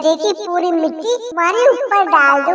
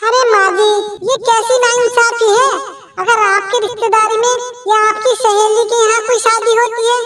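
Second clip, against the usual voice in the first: a higher, aggrieved daughter-in-law; daughter-in-law to mother-in-law, hurt protest, higher; lightly voiced protesting bahu; 5 semitones higher than usual. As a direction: complain of unfairness.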